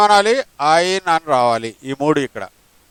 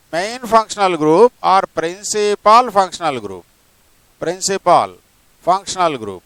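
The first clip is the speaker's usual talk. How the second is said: stretched out very slowly, each word spaced; slow dictation; much slower than usual. Shown as a demonstration. Teacher dictating the definition to the student, very slow. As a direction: spell it out slowly for note-taking. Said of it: "teacher dictating note to student".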